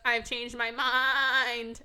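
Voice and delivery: slow, trembling goat voice; lightly voiced bleating goat. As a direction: bleat it out slowly. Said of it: "the goat walks up ... and goes".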